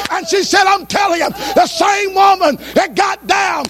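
high, building sermon delivery; full-force preaching. Acted. Healed woman testifies of reaching Jesus, in full-force preaching. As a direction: preach her testimony high, with rising fervor.

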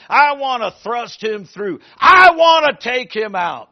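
rising into a loud shouted cry; Saul's rage breaking out loud; loud angry cry. Acted.

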